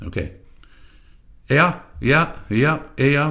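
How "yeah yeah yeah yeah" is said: "yeah, yeah" very quick, almost barked, higher, E hardly pronounced. Shown as a demonstration. Demonstrating eager "yeah" meaning yes, quick and barked. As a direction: bark out "yeah" fast, ready to go. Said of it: "very quick, almost a bark".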